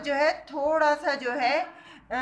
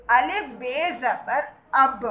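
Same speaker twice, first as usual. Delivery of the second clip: slow spelling out; slower than usual. Shown as a demonstration. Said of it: "तो क्या बना ये?".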